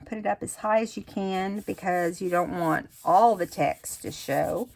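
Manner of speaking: speaking through hiccups; hiccuping. Real, not acted. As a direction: hiccups breaking the words. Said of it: "I'm hiccuping".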